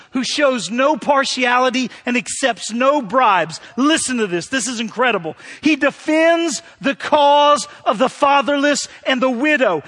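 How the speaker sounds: measured, solemn Bible reading; scripture reading. Acted. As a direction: read the passage with reverent weight. Reads scripture aloud.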